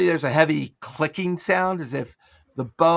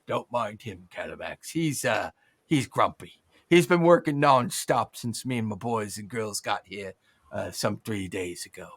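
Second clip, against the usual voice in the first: apologetic goblin; 6 semitones lower than usual. Acted. GM voices goblin/kobold helper.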